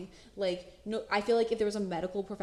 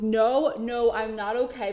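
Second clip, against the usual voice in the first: muffled protest; 2 semitones higher, 8 dB louder than usual. Retold or imitated. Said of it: "literally mumbling under his hand".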